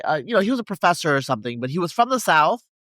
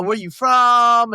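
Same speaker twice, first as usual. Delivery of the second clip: higher, slow, eager retold question; super-happy greeting; 5 semitones higher, 4 dB louder, much slower than usual. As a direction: imitate an overjoyed new acquaintance. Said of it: "super happy to see him".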